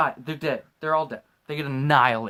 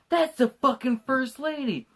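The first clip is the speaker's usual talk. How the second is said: shocked exclamation; 8 semitones higher, slower than usual. Retold or imitated. Shocked at crashed helicopter.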